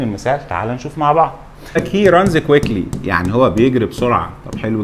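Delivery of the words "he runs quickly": very slow, each word of He runs quickly spelled out; slow dictation. Shown as a demonstration. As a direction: read it out slowly for the class to copy. Teacher dictates an example sentence.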